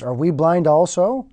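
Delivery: religious leaders sneering at Jesus; sarcastic. Retold or imitated. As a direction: throw the question back with scorn. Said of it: "they said sarcastically".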